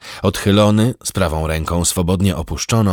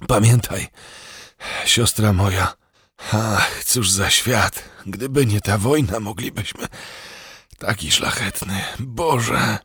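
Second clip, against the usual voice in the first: dying words; 5 semitones higher than usual. A narrator's reading. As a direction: let each phrase fade as life leaves. Dying prince's last words.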